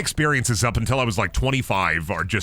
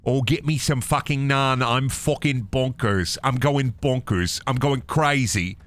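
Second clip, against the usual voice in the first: mock British. Acted mock-accent craving for naan.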